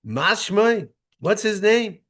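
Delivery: questioning people. Acted. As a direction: play the doubtful people asking.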